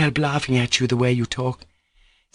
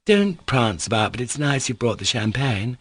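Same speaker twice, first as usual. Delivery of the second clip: insistent chatter; 4 semitones higher than usual. Acted. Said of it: "she went on insistently".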